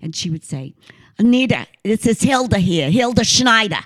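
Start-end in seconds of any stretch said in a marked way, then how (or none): 1.2-2.9 put-on light Queens accent, a bit louder, secretary on the phone. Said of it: "she had this real Queens kind of accent". 2.9-3.8 put-on "Hilda Schneider" in a light Queens accent, a bit louder and higher. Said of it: "she had this real Queens kind of accent".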